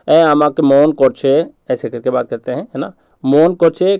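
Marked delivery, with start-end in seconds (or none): 0.1-1.5 slow, drawn-out Bengali-accented Hindi; teacher mimics a Bengali friend, slow. Shown as a demonstration. A Bengali friend complaining, teacher does a slow Bengali accent. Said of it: "समझो कि मैं एक tone में बोल रहा हूँ, Bengali tone में". 3.2-4.0 Bengali accent. Shown as a demonstration. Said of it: "Bengali tone में".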